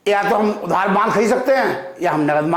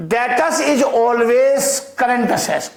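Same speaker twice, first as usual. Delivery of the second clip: very slow, word by word dictation; crawling dictation pace; much slower than usual. Shown as a demonstration. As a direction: dictate it slowly for note-taking. Teacher dictating slowly to class.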